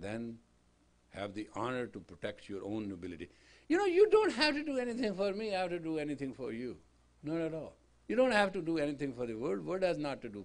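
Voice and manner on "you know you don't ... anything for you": emphatic point. Acted.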